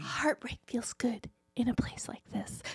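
soft, slow whispered movie ad line; imitating Nicole Kidman. Reciting the cinema ad along with the actress, in a slow hushed whisper. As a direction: breathe it like a glossy cinema ad. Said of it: "I said it along with her".

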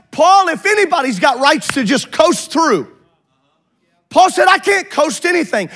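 driving, insistent sermon delivery; fervent preaching. Real, not acted. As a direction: preach it urgently, leaning hard on key words. Preaches at rising force.

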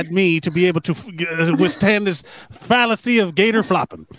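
righteous speech in a put-on Gainesville accent; mock Gainesville accent. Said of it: "I don't know why I gave her that accent".

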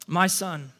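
tender, understated address to a son; lightly acted fatherly gentleness; gentle father. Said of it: "I imagine that he says that really gently".

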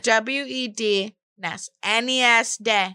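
"W E D, Ness. N E S, day" spelled slowly, sounding out Wed-nes-day; spelling out letters. Shown as a demonstration. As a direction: spell "W E D", then say "Ness" and "day" like separate syllables. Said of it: "That's the only way I can do it".

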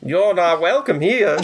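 harsh voice. Acted. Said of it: "Another voice".

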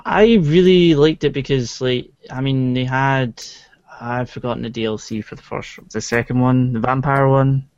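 playing a character in a Scottish accent; Delson, Scottish accent. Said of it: "why are you talking in a Scottish accent".

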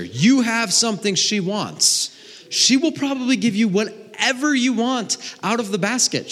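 put-on high, animated pep talk to a kid; emphatic coaching dad. Dad teaches son about supply and demand, emphatic. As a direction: pitch it up and school the boy eagerly.

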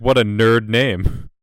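slow, mocking put-down; a touch of scornful contempt; sneering mock Walter. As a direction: drag out the insult with disdain. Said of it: "Walter's like".

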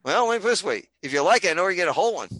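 a hint of the joke's husband; joke punchline. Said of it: "He goes".

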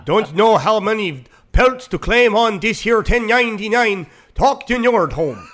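Viking tax man with a hint of Swedish; lightly voiced Nordic accountant. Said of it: "He sounds like a Viking that does taxes for people".

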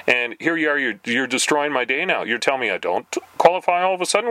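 guilt-trip the caller; mock indignant challenge. Challenging the telemarketer, in a mild mock indignant tone. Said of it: "I kinda challenged this person".

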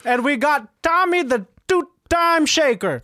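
slow, high ringside hype; slow announcer. Acted. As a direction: drag out the fighter's name. Announcer introducing second fighter.

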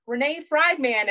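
high, slow announcer calling a name; mock graduation announcer. Announcer at high school graduation calling a student, mimicked.

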